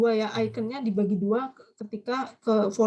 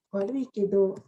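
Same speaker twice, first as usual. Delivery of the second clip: repeated model phrase; 3 semitones lower than usual. Shown as a demonstration. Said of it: "bisa ditambah lagi warui kedo".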